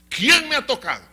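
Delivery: loud, high demand to a crowd; calling out. Acted. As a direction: call the question out over a crowd. Jesus calls out to the crowd. (pregunta lanzada a gritos)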